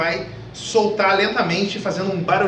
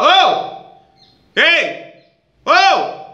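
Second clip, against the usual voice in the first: high, loud calls pushed from the belly; diaphragm shout; 10 semitones higher, 5 dB louder, much slower than usual. Shown as a demonstration. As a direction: shout from the diaphragm, not the throat. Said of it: "Você usa aqui de dentro".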